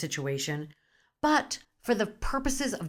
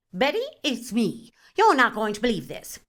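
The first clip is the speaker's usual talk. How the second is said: gossipy outraged phone call; 3 semitones higher, 4 dB louder than usual. Acted. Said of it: "we call our people and share our outrage".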